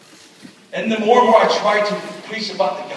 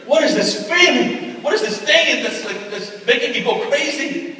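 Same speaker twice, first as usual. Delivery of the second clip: higher, slow, searching; restless wonder; 7 semitones higher, 4 dB louder than usual. Retold or imitated. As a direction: ask yourself, baffled and stirred up. Sleepless boy voicing inner turmoil.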